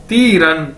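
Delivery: "ती रन" joined, with a long ती; careful language-drill "ती रन"; demonstrated pronunciation. Shown as a demonstration. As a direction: model "ती रन" for learners. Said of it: "इकट्ठा कर दिया जाए".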